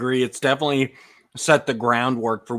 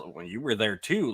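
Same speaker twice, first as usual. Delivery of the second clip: lightly voiced backtalk, lower and softer; Clawful talking back; 3 semitones lower, 5 dB quieter than usual. Host quotes henchman talking back to Skeletor, understated backtalk. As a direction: answer the boss back, low-key. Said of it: "the way he talks back to Skeletor".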